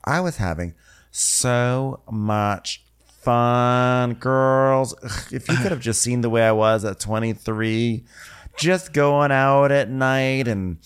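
imitating an older guest bragging; mock wild-days boasting. Jane the golfer bragging to the girls.

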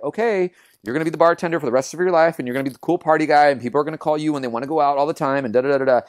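breezy self-talk. Retold or imitated. Talking himself into the bartender life, breezy and quick. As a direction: reel it off lightly, trailing into da-das.

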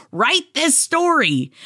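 lightly voiced instructor giving an assignment; a hint of a firm writing teacher; teacher's instruction. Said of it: "the creative writing instructor that I am says".

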